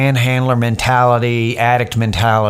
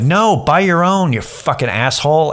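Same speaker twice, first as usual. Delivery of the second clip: snapping retort; 6 semitones higher than usual. Retold or imitated. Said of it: "I just snapped at him".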